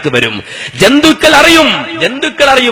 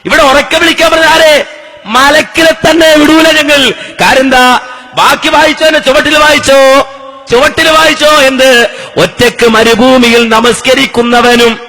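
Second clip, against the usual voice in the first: full-force preaching; 2 semitones higher than usual. Acted. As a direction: proclaim it to a crowd, stretching the last words. Argues and reads in preaching voice. (ഉച്ചത്തിൽ നീട്ടിയുള്ള മതപ്രഭാഷണ ശൈലി)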